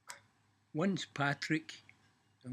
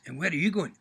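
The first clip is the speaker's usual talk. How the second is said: devil's question; 3 semitones higher, 6 dB louder, faster than usual. Acted.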